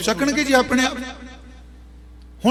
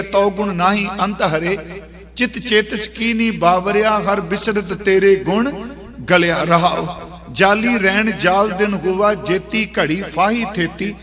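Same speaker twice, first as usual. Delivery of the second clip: scripture recitation. Acted. Recites the shabad. (ਹੌਲੀ ਹੌਲੀ ਸ਼ਰਧਾ ਨਾਲ ਸ਼ਬਦ ਦਾ ਪਾਠ)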